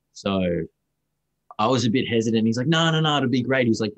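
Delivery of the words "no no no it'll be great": higher-pitched, waving away the doubt; retold "don't worry" in a lifted voice; retold eager reassurance. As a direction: reassure someone hesitant, pitched up. Retold man brushing off his hesitation.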